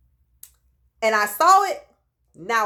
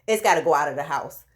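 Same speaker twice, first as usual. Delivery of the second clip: nauseous insistence; 4 semitones lower, faster than usual. Retold or imitated. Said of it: "it made me nauseous".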